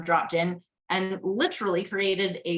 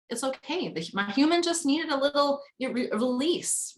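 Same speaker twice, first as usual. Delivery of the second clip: retold self-reassurance; 7 semitones higher than usual. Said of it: "stepping back and being like".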